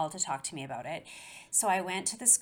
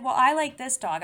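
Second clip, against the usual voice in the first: sudden decision; 6 semitones higher, 10 dB louder than usual. Retold or imitated.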